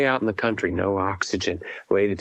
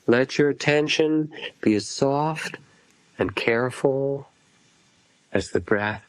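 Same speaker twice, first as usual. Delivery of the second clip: unhurried phrases, each left to settle; guided meditation; 4 semitones higher than usual. Acted. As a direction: guide listeners gently into feeling the breath. Leads a breath meditation.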